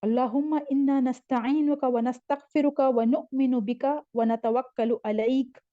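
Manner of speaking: one connected teaching recitation ending on अलैक; joined-up recitation. Shown as a demonstration. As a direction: run the phrases together up to अलैक. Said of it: "उसको उसके साथ ही पढ़े".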